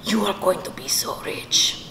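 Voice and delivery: imitating an awed Spanish-accented dad; Spanish-accented father marvelling; dad's Spanish accent. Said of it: "when I do the accent".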